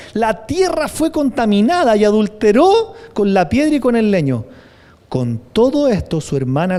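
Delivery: loud, forceful Bible reading; preacher reading scripture aloud. Acted. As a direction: proclaim the verse to the congregation. Continues reading Jeremiah forcefully.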